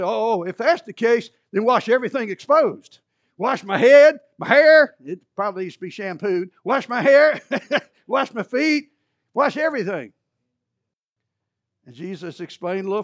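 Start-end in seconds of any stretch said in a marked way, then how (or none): 0.0-5.0 much louder and higher, rising excitement; eager overreaction. Acted. Peter eagerly asking for more. 6.6-10.1 higher and louder, laughing through it; Peter's comic overeagerness, high, loud, laughing; hammed-up eagerness.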